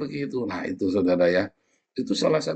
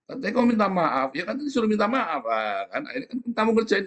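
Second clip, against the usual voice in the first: higher, exasperated complaining voice; exasperated accuser; 5 semitones higher than usual. Retold or imitated. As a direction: voice the fed-up other side, pitched up. Voicing the exasperated other person.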